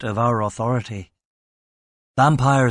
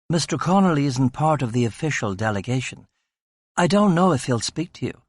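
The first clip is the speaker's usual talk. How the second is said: flustered receptionist; 3 semitones higher than usual. Acted. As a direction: stall the police politely and nervously. Receptionist voiced in story.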